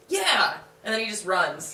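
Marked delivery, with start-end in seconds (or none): 0.1-0.6 loud, higher yell of triumph; triumphant yell. Retold or imitated. Man yelling at the kangaroo, triumphant shout. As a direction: bark it out like you just won. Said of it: "he's like".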